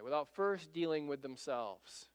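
ordinary delivery

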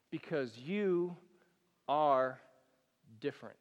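soft, low, spaced-out words; tender quote. Acted. Jesus to his listeners, tender and soft. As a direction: let each phrase land gently. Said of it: "Jesus would look at us and say".

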